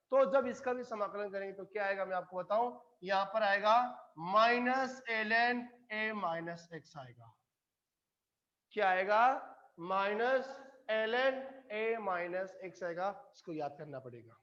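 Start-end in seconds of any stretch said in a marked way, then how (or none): 4.2-7.3 slow, spaced-out terms; slow dictation. Real, not acted. Teacher giving result to memorise. 9.8-13.1 slow repetition for memorising; slow dictation. Real, not acted. Teacher repeats result to memorise.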